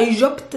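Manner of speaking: Egypt garbled as eye-jopt; mangled Egypt with a wide first vowel; wrong Egypt variant. Shown as a demonstration. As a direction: distort Egypt into a silly ai-zhopt. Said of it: "we don't say Egypt".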